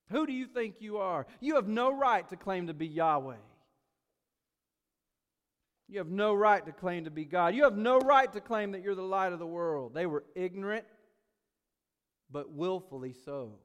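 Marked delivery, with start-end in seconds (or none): 0.1-9.9 a milder sneer, still scornful; contemptuous. Acted. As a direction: dismiss his claims with cold contempt. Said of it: "snide, contemptuous sort of way".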